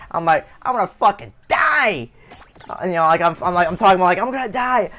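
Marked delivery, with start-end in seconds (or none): 0.6-2.1 imitating a panicked, crying kid; retold crying wail. Injured kid wails to his parents, mock-crying. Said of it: "start fucking crying like a motherfucker". 4.2-4.9 retold crying wail. Repeating his cry to his parents, mock wailing. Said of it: "start fucking crying like a motherfucker".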